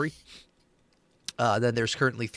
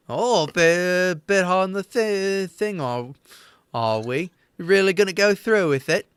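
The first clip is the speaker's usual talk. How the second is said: mocking nervous retort; 6 semitones higher than usual. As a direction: test if he'll really do it. Topper reacting to blade threat.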